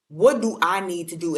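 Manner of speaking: a hint of a comedian impression; Cat Williams. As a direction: punch it up slightly, like imitating a comedian. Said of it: "In my Cat Williams voice".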